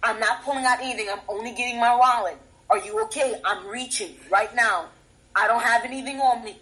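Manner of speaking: mildly calm, level narration of each move; slow narration. Shown as a demonstration. Telling police each movement, calmly narrated. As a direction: narrate evenly, keeping it unthreatening. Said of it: "slow narration and repeat yourself".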